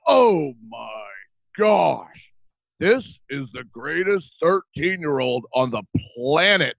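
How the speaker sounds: high, beaming excited dad voice; dad's delighted gushing. Retold or imitated. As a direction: gush over the kid like the proudest father. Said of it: "he would just light up".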